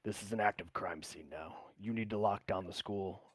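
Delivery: grave, matter-of-fact instructions; very serious. Acted. Lodestone orders Theophilus to lock down the crime scene, very serious. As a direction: give orders in all seriousness. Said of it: "in a very serious tone".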